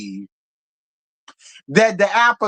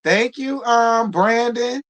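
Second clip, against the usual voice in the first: ordinary delivery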